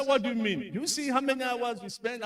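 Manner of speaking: replaying the boss's annoyed comeback; retold upset retort. To the speaker over the long meeting, a mildly upset voice. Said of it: "he got upset".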